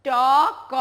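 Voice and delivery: "ট" and "ক" held apart as two syllables; slow letter-by-letter "ট ক"; sounding out letters. Shown as a demonstration. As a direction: split the word into "ট", pause, "ক". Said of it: "আরেকটি শব্দ কি জানো?".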